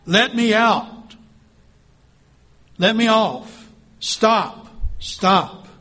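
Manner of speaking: high, loud pleading scream, slow at first; spinning teacup screaming at the potter, high and loud. Acted. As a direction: shout to be let off the wheel. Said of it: "I screamed".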